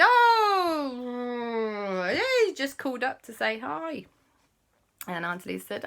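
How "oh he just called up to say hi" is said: high innocent fib; kids covering up. Acted. Kids hiding the call from Auntie Lisa, high fake innocence. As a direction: squeak it out like a fib. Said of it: "And they said".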